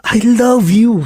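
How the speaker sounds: a tearful I love you to his partner; tearful confession. Acted. Confessing love to El, near tears. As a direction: let the voice catch as you confess.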